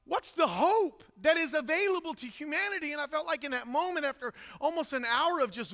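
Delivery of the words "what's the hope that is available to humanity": impassioned reenacted plea to God; anguished questioning. Weeping pastor questioning God about his ministry, anguished. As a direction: plead for answers, rising in intensity. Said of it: "this moment of questioning".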